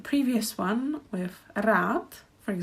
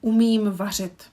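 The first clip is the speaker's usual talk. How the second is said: Umím vařit said firmly and a bit louder; emphatic model sentence; 6 dB louder than usual. Shown as a demonstration. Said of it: "the last sentence".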